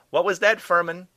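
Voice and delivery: high, loud shout to another room; called out. A narrator's reading. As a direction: holler the question through the apartment. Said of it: "Doe called out".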